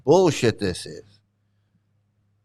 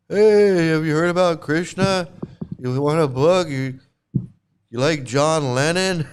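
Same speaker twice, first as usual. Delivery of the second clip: mock preacher; 3 semitones higher than usual. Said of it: "Still talking about".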